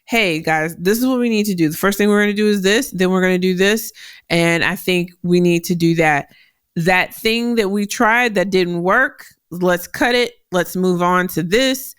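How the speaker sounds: brisk, to-the-point team instructions; short work-mode cadence. Shown as a demonstration. Team member in work mode giving guys the next steps, short. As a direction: rattle off the plan, no frills. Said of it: "I can get short. I can talk like this".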